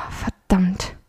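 understated pained groan; quiet groan. A narrator's reading. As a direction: groan the curse under your breath. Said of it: "ächzte Tobias leise".

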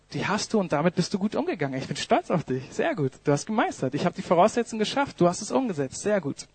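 soft, gentle praise from the master; the Lord praising his faithful servant softly, tenderly. Acted. Gentle fatherly praise.

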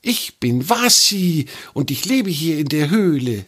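high hissing snake introducing herself; a friendly snake named Wasi says hello. A narrator's reading. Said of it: "mit ihrer zischelnden Stimme".

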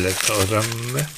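"Lecker Römme" with "Römme" drawn out slowly, Danish rounded ö; slow Danish pronunciation. Shown as a demonstration. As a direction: repeat "Römme" slowly like learning a word. Repeats the Danish word slowly.

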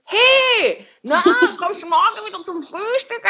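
high, bright friendly hello; cheery village greeting. Retold or imitated. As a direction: greet her like a neighbour. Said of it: "dann wird die begrüßt".

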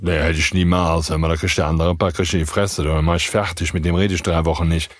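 imitating a grudge-holder. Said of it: "dass du gerade denkst".

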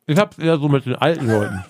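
talking with mouth full; words round a bite of food. Real, not acted. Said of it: "mit vollem Mund nochmal das sagen".

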